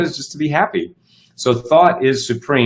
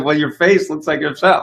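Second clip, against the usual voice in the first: higher-pitched mock explanation; imitating insistent partner; 6 semitones higher than usual. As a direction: mimic a partner pressing the point, voice raised in pitch. Acted partner insisting he looks upset.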